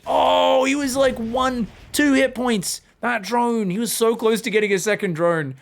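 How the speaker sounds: high, loud near-miss call; excited groan. Real, not acted. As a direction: moan at how close it was. Caster reacting to near kill.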